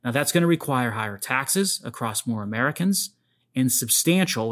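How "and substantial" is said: "substantial" said with a slight extra push; mild emphasis on "substantial"; stress on substantial. Shown as a demonstration. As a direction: lean a little on "substantial". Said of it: "I wanna emphasize the word substantial".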